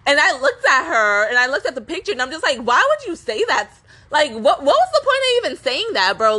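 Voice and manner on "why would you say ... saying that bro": higher-pitched, baffled questioning; retold confusion. Retelling her reaction to the caption, confused protest. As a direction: replay your bewilderment as a rising challenge. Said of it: "I was just so confused".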